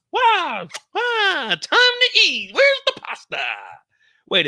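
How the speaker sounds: high squeaky voice hamming up excitement for food; squeaky cartoon glee. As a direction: squeal it like a cartoon character at the dinner bell. Goofy dinner-time voice.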